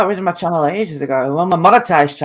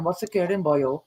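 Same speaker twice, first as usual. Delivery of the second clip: put-on Welsh accent; 7 dB quieter than usual. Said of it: "I did a Welsh one".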